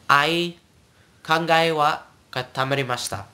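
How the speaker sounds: "Ai" run into one glide without stopping; "kangai" with its a and i slurred together; slurred vowels. Shown as a demonstration. Teacher shows vowels run together, slurred. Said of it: "it's, like, slurred".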